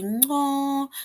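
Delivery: high puzzled "No"; puzzled reply. Pretend. Teacher miming an awkward reply to a random statement, puzzled. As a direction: answer as if baffled.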